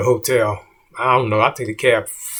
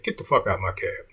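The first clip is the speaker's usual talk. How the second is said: menacing low threat; 3 semitones lower, 6 dB quieter than usual. Retold or imitated. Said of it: "I can only say this the way he said it".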